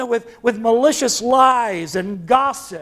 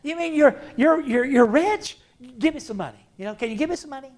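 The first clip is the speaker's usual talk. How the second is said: mock scoffing; 3 semitones higher, faster than usual. The mocking world scoffing at poor Christians, amused. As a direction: play the skeptical world mocking them. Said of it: "the world snickers with amusement".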